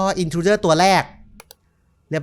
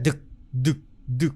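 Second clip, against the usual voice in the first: soft thumping "ดึก ดึก" like a heartbeat; heartbeat imitation; 4 semitones lower, 7 dB quieter than usual. Streamer imitates the heartbeat sound he hears in the game. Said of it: "เสียงเหมือนหัวใจเต้น".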